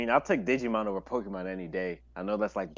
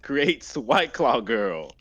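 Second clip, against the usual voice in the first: Powerpuff narrator; 4 dB louder, much slower than usual. Pretend. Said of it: "Powerpuff Girls".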